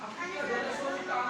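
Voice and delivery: husband begs his wife through tears, a touch of crying. A narrator's reading. Husband pleads with wife who denies him, mild tearful voice. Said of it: "dia nangis".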